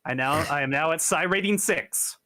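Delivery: lightly put-on Irish accent for a diary entry. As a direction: dictate a mental diary with a touch of Irish. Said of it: "pick up the Irish accent".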